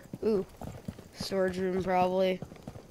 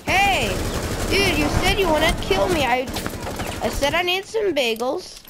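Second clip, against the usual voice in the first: frat bro; 5 semitones higher than usual. Real, not acted. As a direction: yell dude at the betrayal. Attacked again, complaining.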